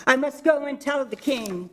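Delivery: a hen sure the sky is falling; Henny Penny. Acted. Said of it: "said Henny Penny".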